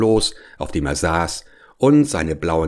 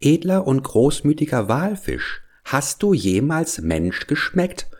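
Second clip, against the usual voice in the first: high, sly little fish voice; small clever voice; 7 semitones higher than usual. Acted. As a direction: pipe it up like a cunning little fish. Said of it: "mit kleiner, schlauer Stimme".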